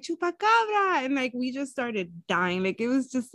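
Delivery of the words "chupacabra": high, excited "Chupacabra"; punning on cabra, excited; playful punchline. Retold or imitated. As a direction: toss off the joke with glee. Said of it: "I was like".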